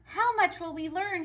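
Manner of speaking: booming high proclamation, building; rousing head teacher speech; proud principal. A narrator's reading. Principal to students and teachers, grand and rising. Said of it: "he said".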